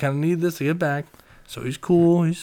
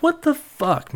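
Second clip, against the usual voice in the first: much higher, exasperated outburst; 14 semitones higher, 4 dB louder, slower than usual. Retold or imitated. Friend exasperated at the drunk buddy's seat grab, high outburst. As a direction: throw your hands up in disbelief.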